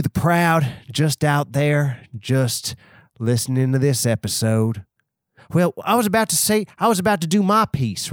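a cowboy musing out on the range. Acted. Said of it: "I'm just doing a cowboy voice".

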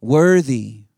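"Worthy" ringing out loud to the room; emphatic worthy. Real, not acted. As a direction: proclaim "Worthy" with full force. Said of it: "Jesus is worthy of every song".

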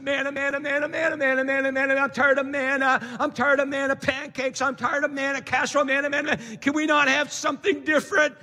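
lightly voiced moaning crowd; mock grumbling Israelites. Preacher mocks grumbling Israelites with a whiny chant. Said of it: "They grumbled in the Old Testament".

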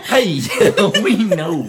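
loud, laughing mock Russian accent. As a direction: ham up a Russian spy voice. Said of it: "That's my Russian accent".

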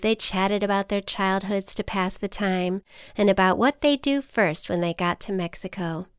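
plain reading voice

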